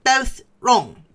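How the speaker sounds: high, loud cry of relief; relieved cry. A narrator's reading. Bilbo answering Gollum with relief, crying out. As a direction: burst out with relief. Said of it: "cried Bilbo".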